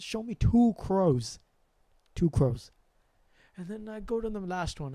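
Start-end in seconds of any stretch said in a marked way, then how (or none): 0.0-2.7 inner voice. Retold or imitated. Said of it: "it said".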